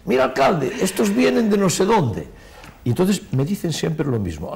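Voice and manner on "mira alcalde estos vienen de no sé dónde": quoting a local. Retold or imitated. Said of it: "me para".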